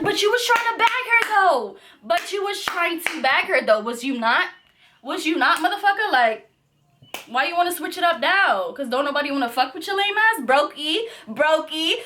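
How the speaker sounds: high mocking taunt; mock him back, sassy; taunting comeback. Retold taunting of the man.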